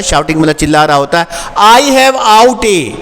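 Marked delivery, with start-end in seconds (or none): 1.6-2.9 mild mock shout. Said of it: "कोई चिल्ला रहा होता है".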